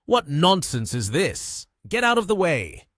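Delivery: high, loud, angry outburst; angry director shouting, pitch jumping up; furious shout. A narrator's reading. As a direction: explode at an employee in fury. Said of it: "turned furious as he shouted".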